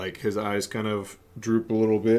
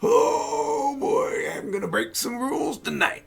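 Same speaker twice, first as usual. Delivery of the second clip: high, loud giddy outburst; excited; 4 dB louder than usual. Acted. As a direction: squeal with delight at the deal. Stranger excited by offer.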